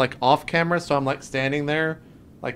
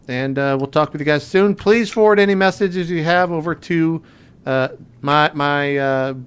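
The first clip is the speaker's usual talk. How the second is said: character voice; 2 semitones higher, 4 dB louder than usual. Acted. Recording a message as Higgins.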